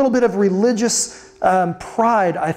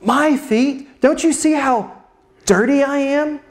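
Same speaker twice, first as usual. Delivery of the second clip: distressed self-abasing plea, pitched up at first; mind-blown protest; 3 semitones higher than usual. Acted. Peter protesting he is too dirty for Jesus, mind blown. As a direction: plead in mild disbelief, halting between phrases. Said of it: "his mind is blown".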